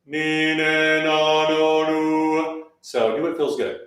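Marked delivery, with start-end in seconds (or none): 0.0-2.7 vowels with fingers between molars; fingers in mouth. Shown as a demonstration. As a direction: speak with fingers propping the jaw. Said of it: "Fingers between the molars".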